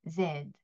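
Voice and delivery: Z with the throat buzzing, soft and low; Z zède, quiet and vibrating; voiced French Z. Shown as a demonstration. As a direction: buzz Z gently from the throat. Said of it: "목청을 살짝 울리면서".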